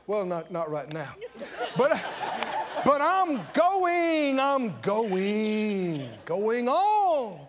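sheepish, then stretched going; laughing evasion. Acted. Son making excuses to the preacher, sheepish. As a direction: laugh it off while stalling.

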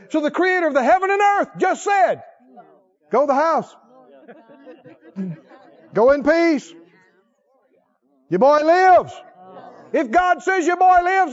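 fervent preaching. Acted. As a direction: build to a proclamation. Preaching at full force.

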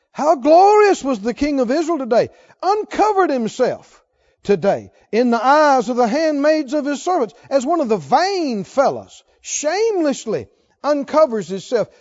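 wife mocking the dancing king, scornful; sarcastic scorn. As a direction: read it with a contemptuous sneer. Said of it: "she said".

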